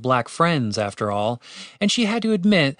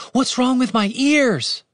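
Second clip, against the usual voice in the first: very high, slow, drawn-out cry; alarmed shout; 12 semitones higher, 3 dB louder, slower than usual. A narrator's reading. Elf horrified by her changed ears, shouting. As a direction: wail the question high and drawn out. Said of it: "she shouted".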